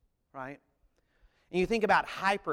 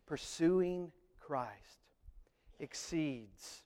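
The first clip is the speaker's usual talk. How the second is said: hushed awe; slower than usual. Real, not acted. Emotional sermon climax.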